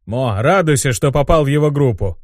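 mildly growled remark; a touch of a growling fighter. Acted. Rakshasa telling a squadmate to rejoice, lightly growling. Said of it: "продолжил рычащий".

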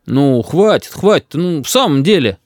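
mildly insistent grandfather; gently firmer plea for peace. A narrator's reading. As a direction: raise your voice just a touch. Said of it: "слегка повысив голос".

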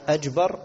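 "أجبر" with a jim in place of the kaf. Shown as a demonstration. Teacher cites the mistaken form "أجبر". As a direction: say "أجبر" and not "أكبر". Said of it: "قلب الكاف لجيم".

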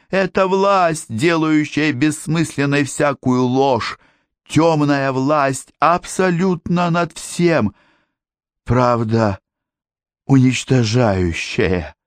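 high, slow, feverish outcry; half-coherent shouting. A narrator's reading. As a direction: cry it out as if possessed. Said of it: "почти бессвязно выкрикивал он слова".

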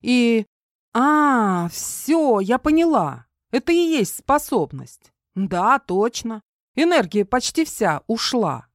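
put-on high, animated girl's voice; young woman eagerly working it out; excited girl. A narrator's reading. Voices Kara working out ability.

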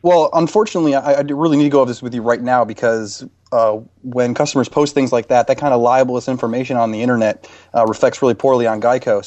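a hint of an insurance PR man, pushy; customer service rep. Prank caller posing as Geico rep.

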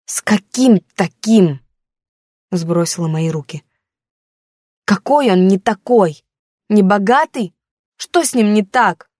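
a hurt daughter pushing back at her mother; teen daughter, defensive. Acted.

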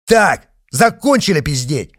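loud snarled order; rough bark. A narrator's reading. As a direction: bark to shut them up. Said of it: "рявкнул патриот".

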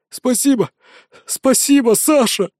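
high, tearful gratitude; sniffling thanks. A narrator's reading. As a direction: thank him through sniffles. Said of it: "хлюпая носом".

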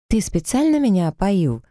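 high, hurt cry of betrayal; hurt exclamation. Acted. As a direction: exclaim it, stung and offended. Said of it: "воскликнула я от обиды".

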